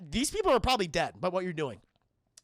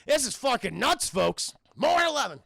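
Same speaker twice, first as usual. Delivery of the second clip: mock news reporter. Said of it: "She says".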